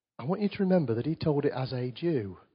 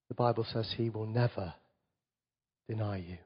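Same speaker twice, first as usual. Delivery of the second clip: softer, sincere pastoral comfort; soft reassurance; 4 dB quieter than usual. Real, not acted. Pastor gently reassuring hurting listeners, soft and sincere. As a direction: lean in and reassure them quietly.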